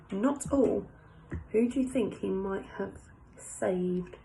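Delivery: lightly voiced French café owner; French accent. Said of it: "I like my little French voice".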